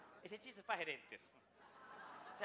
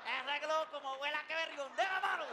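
lightly voiced excited country cousin, building higher; marvelling cousin; 4 semitones higher than usual. Cousin amazed at the flying balloon, lightly mimicked with rising excitement. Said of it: "Y aparece el primo".

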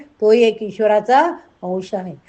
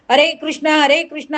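higher-pitched urgent calls; cowherds crying out; 5 semitones higher than usual. Acted. Cowherds call to Krishna as the mountain slips, urgent cry. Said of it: "Gopal ओरडू लागले".

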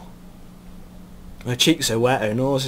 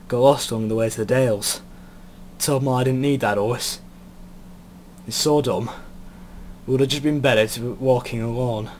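put-on northern English accent. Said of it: "Yeah, he's got northern now".

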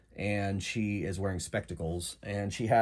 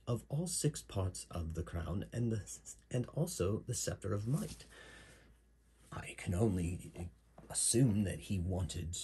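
put-on light British accent, explaining a quest; brief the party as an English client, lightly acted; a touch of British accent; Mirandol's British accent. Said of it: "So she has a British accent".

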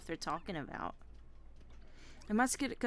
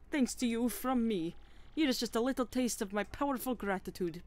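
chef character voice; 3 semitones higher than usual. Acted.

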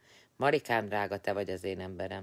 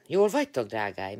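bright greeting; 7 dB louder than usual. Real, not acted. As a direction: call out happily to friends. Greeting friends in a live chat.

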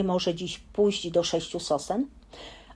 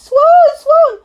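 much higher, louder, winded shout; breathless frightened cry; 14 dB louder than usual. Acted. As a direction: blurt it out still gasping. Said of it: "tak zdyszany, że ledwo mógł mówić".

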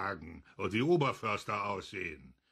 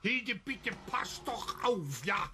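anxious plea; 10 semitones higher than usual. Acted. Husband pleads with wife.

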